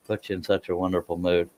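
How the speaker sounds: soft, soothing delivery, a touch playful. Pretend. Streamer teasing viewers about his appeal, playfully soothing. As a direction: play up a softly soothing voice. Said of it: "is my soothing voice".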